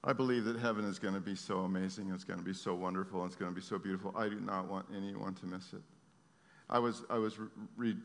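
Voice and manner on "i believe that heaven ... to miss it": intimate, sincere. Real, not acted. Sermon drops to intimate tone.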